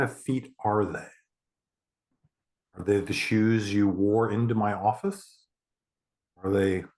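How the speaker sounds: measured meditation countdown, long gaps between steps; guided meditation. Acted. Therapist counting a client down twenty stairs, guided meditation. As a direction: guide them down step by step, unhurried.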